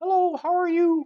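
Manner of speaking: wild, very high hand-puppet voice. Speaker describes talking through a hand puppet, demonstrating: wild puppet voice. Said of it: "That's my puppet voice".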